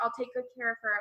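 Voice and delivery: ordinary talk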